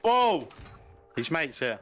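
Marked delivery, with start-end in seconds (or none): 0.0-0.5 surprised. Real, not acted. Sudden enemy appears.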